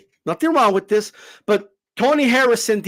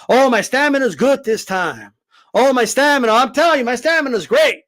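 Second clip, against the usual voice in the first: mock boasting. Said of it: "keeps talking about his stamina".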